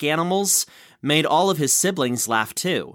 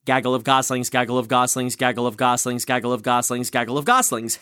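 tongue twister; 3 semitones lower, faster than usual. Shown as a demonstration. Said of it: "recite that five times fast".

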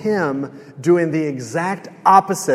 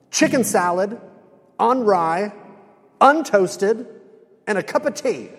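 higher-pitched, emphatic acted complaint; mock indignation, item by item with pauses; retold defiant ordering; 4 semitones higher than usual. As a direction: act out a fed-up diner changing his order. Acted defiant change of lunch order.

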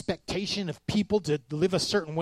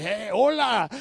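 put-on loud, higher white-boy Spanish greeting; 5 semitones higher, 5 dB louder, slower than usual. White boy customer hails taco staff, white boy Spanish. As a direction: hail them in Anglo-accented Spanish. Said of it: "my white boy self".

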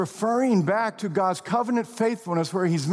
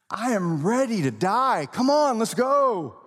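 brash eager Peter; 4 semitones higher than usual. Retold or imitated. Preacher mocking Peter's boast of readiness to die, brash. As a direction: pump it up like a cocky volunteer.

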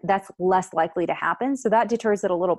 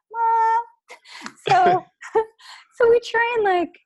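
laughing; 4 dB louder, slower than usual. Real, not acted. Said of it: "laughing after the skit".

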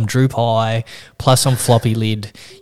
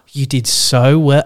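mock gushing praise; 3 semitones higher, 4 dB louder, slower than usual. Receptionist gushing praise at patient.

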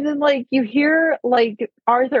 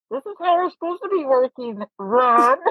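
a higher, teasing twin voice; Jim Dale's twin; 4 semitones higher than usual. Retold or imitated. The twins teasing Ron, in a higher teasing voice. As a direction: needle your little brother. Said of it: "where he's like".

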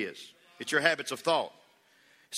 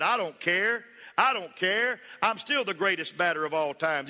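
put-on defiant kid; 3 semitones higher than usual. Boy shrugs off his missed swings.

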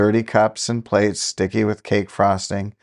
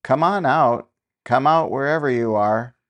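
raised call into the back of the house; 4 semitones higher than usual. Acted. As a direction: call them out of hiding.

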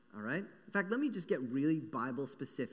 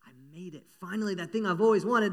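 dreamy mouse thought; 4 semitones higher, 8 dB louder than usual. Acted. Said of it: "he's just thinking".

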